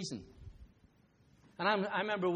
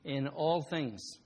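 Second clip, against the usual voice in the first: God slow and gentle; much slower than usual. Retold or imitated. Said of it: "he says".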